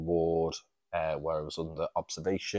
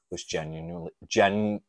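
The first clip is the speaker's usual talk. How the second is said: words slurred past loose teeth; loose dentures; 6 dB louder than usual. Real, not acted. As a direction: stumble as if dentures slipped. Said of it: "let me put my teeth back in".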